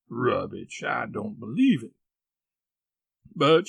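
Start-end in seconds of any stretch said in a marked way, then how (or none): 0.1-1.9 dismissive aunt. Acted. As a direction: lower start, firm scoff. Aunt dismisses boy's alarm.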